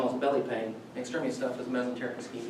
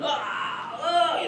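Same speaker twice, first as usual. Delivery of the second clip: imitating a patient's high pained cries; retold "ah, ah" scream pitched way up; mock scream; 10 semitones higher than usual. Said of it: "she's yelling, screaming".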